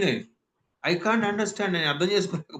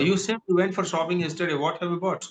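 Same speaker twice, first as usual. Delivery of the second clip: smooth, quick spoken English; natural quick pace; slower than usual. Shown as a demonstration. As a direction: say it at natural speaking speed. (సహజమైన వేగంతో)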